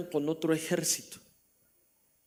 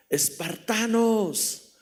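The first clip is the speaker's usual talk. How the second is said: long drawn-out battle shout, higher and louder; war cry; 6 semitones higher, 6 dB louder, much slower than usual. Acted. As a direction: roar it to rally the troops. Leónidas calls to his men. (grito de guerra alargado y fuerte)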